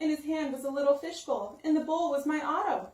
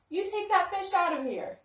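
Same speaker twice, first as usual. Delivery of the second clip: mild yell; 6 semitones higher than usual. Acted. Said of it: "they yelled".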